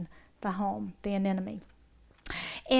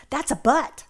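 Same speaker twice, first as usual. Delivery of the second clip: Aussie boat; 3 semitones higher, 4 dB louder than usual. Retold or imitated. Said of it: "We would call it a boat".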